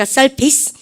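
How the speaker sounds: surface said slowly as "SUR-fis"; correct surface. Shown as a demonstration. Teacher reading out the phonetic notation, surface as SUR-fis. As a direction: say surface ending in short "fis", not "face". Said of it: "발음과 surface".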